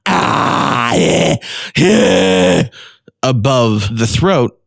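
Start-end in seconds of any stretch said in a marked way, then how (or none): 0.1-2.7 harsh distorted eh; false chord distortion. Shown as a demonstration. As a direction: rasp it above the throat. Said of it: "All of the distortion comes from the".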